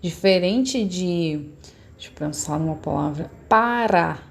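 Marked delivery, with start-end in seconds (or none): 3.5-4.2 para with the R tapped on the tip of the tongue; single tapped R. Shown as a demonstration. Teacher shows the tapped R in para. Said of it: "quando eu falo para".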